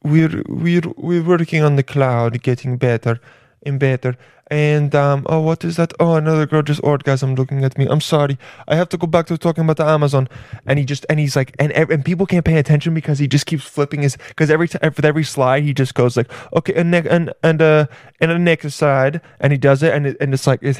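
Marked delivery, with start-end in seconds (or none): 0.0-10.3 lightly put-on Italian accent; rough mock-Italian tech boss; Jeff Bezos with Italian accent. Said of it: "he had an Italian accent". 16.5-19.2 lightly put-on Italian accent; rough mock-Italian tech boss; Jeff Bezos with Italian accent. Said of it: "he had an Italian accent".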